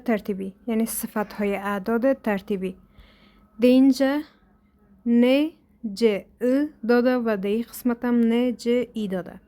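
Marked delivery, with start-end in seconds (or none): 5.1-9.4 whisper. Real, not acted. Whispered aside.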